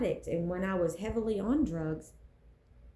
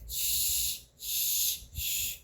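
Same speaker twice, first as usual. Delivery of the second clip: unvoiced shushing whisper; a breathy hushing shh; 3 dB quieter, much slower than usual. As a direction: shush like the world silencing you. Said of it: "This world's gonna tell you".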